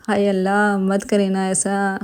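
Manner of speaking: a light hint of a coy girl's voice, slow; coy girlish put-on, understated; girly voice. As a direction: lightly mimic a shy girl, teasing his friend. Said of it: "خالص لڑکیوں والی آواز نکالتا ہوا".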